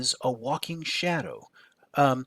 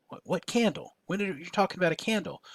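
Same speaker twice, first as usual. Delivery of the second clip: mock bafflement, pitched higher; puzzled questioning; 6 semitones higher, 3 dB quieter than usual. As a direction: play a reader thrown by the sudden mention. Voices a puzzled reader's objection.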